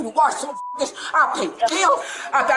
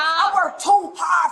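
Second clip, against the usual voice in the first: slow, drawn-out angry shout; yelling; 3 semitones higher, slower than usual. Real, not acted. Mother shouting at officers who tell her to stop, slow angry yell. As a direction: drag each word out in a furious yell. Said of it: "Stop yelling".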